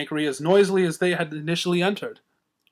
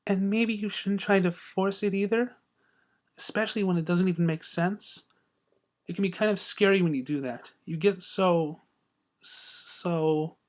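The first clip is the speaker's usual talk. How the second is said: soft whisper; 6 dB quieter than usual. Acted. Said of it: "Fluttershy added in a whisper".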